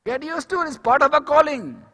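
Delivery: high-pitched, insistent exhortation; emphatic repetition. Real, not acted. Preacher advising on handling rejection, emphatic repetition. Same advice repeated with force.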